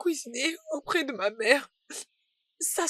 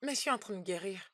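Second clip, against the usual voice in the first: crying on the phone; 3 semitones lower than usual. Acted. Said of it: "Tu pleures".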